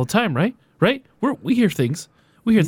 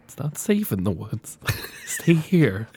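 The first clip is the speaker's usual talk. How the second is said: eerie soothing. Acted.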